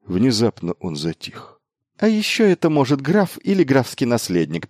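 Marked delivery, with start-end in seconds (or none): 2.0-4.7 high-pitched, eager cut-in; quick-witted interjection, voice raised; interrupting. A narrator's reading. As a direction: jump in over him with the answer. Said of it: "перебил его Майлз".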